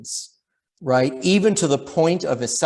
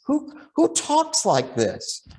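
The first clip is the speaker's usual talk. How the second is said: incredulous; 11 semitones higher, slower than usual. Real, not acted. Incredulous rhetorical question.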